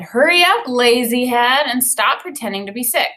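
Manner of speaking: bossy sister. Acted. Sister nagging her brother to get up, lightly voiced. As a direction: tease him out of bed, hint of a big sister.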